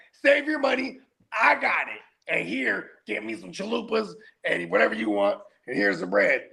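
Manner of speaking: high-pitched generous offer; eager dad. Retold or imitated. Dad offering daughter money for chalupas, high eager voice. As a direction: rattle off the order in a high, pleading pitch.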